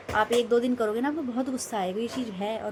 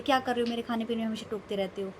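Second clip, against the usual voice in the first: retold angry complaint; faster than usual. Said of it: "मैंने उनको गुस्सा कर दिया".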